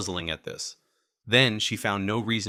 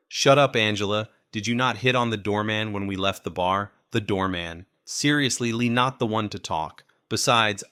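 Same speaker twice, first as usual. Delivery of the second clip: indignant bickering; 5 dB louder than usual. Acted. Tipsy bickering with friend.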